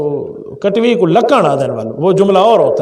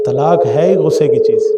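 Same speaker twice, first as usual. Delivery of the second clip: slow, gentle lowered voice; father's calm advice; 4 semitones lower than usual. Retold or imitated. Father advising men who divorced in anger, slow and gentle. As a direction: ease it out like a patient father. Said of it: "ابو فرمایا کرتے تھے".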